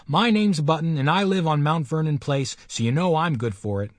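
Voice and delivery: put-on a small boy puffing himself up; indignant boy. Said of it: "he retorted angrily".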